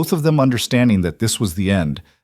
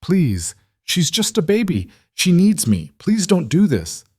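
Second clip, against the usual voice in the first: high, desperate, crying plea; tearful pleading; 9 semitones higher than usual. A narrator's reading. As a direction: beg through tears for the child. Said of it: "Nora was crying now too".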